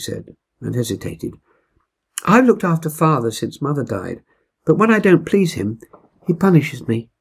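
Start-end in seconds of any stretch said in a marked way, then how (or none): 2.3-7.1 put-on higher, hesitant girl's voice; a girl admitting something painful; young Gilda, troubled. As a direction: Gilda confessing to Mum and Dad. Gilda confesses her father's punishments.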